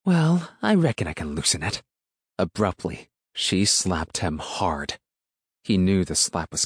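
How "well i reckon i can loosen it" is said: high-pitched rural threat, falling at the end; threatening country woman. A narrator's reading. Woman to silent boy before slapping him, threatening. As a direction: start high, drop into menace.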